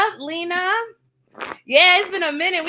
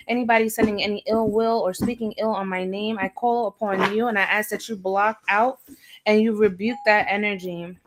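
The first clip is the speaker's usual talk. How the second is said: steady, low, measured invocation voice; prayer; 3 semitones lower than usual. Acted. Reader opening her live reading with a solemn prayer. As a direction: call on the spirits in solemn prayer.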